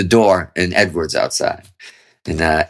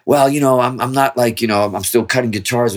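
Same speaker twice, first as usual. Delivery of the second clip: higher-pitched, hedging mock reply; reluctant asshole Virgo; 4 semitones higher than usual. Guitarist putting off a visitor who wants to listen, mock reluctant. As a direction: act out a mildly prickly brush-off. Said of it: "here comes the asshole Virgo comes out in me".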